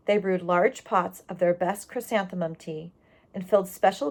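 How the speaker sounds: lively read-aloud voice for the class; storybook reading. A narrator's reading. Teacher reading a chapter book to her class, expressive read-aloud. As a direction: read the tale warmly to the children.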